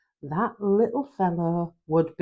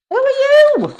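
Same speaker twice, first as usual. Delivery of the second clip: high, loud startled cry; frightened; 7 dB louder than usual. Acted. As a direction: blurt it out in a fright. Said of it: "starting up in a fright".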